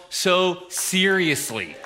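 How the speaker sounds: very slow, stretched phrase; drawn out. Real, not acted. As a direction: stretch seriously out for effect. Preacher drags the phrase.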